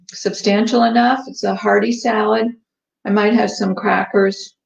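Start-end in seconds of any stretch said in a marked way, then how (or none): 3.0-4.5 talking through a mouthful; words round a bite of food; mouth full. Real, not acted. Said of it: "Talking with my mouth full".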